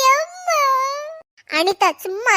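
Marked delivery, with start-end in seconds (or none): 0.1-0.6 tearful wail. Acted. Crying girl calls her mother.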